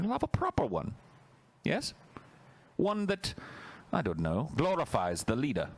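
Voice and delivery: high, mocking regime voice; mock authoritarian official. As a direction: sneer like a dictator's officer.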